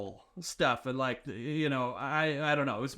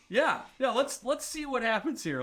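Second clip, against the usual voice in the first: mock won-over eagerness; 7 semitones higher than usual. Acting out audience won over by pitch.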